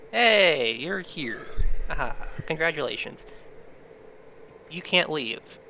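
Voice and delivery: lightly voiced unhinged mascot bear; a hint of a gleeful crazy villain. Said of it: "this crazy voice".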